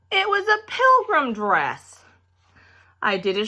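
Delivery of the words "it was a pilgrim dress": much higher and slow, horrified; aghast. Acted. Girl revealing the dreaded dress, high slow squeal. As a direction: squeal it out in disbelief.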